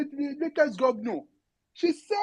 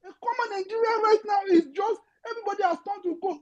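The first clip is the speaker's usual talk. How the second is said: voice breaking; 5 semitones higher than usual. Real, not acted. Emotional plea, cry heard.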